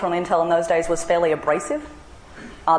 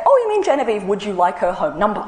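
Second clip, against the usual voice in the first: chirpy secretary; 3 semitones higher than usual. Retold or imitated. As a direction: play the helpful receptionist, pitched way up. Secretary cheerfully offering a number.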